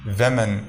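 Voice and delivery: ویمن said as "wi-men", short vowel first; women pronounced. Shown as a demonstration. Teacher contrasting ویمن with woman for students, clear. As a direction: model ویمن with a short "wi" sound. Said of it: "اس کا تلفظ ہوگا ویمن".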